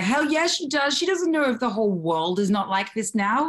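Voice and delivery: excited high hell yeah; emphatic yes. Retold or imitated. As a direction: belt it out with glee. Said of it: "I'm like".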